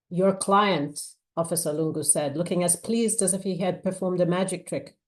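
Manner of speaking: measured, expressive novel reading; story narration. A narrator's reading. Author reading her thriller to an audience, measured narration. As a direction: read the scene aloud with weight. Reads novel excerpt aloud.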